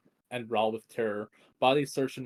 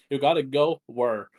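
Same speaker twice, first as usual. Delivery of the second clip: raised incredulous voice; 2 semitones higher, 8 dB louder than usual. Acted. Vettel challenges her leaving.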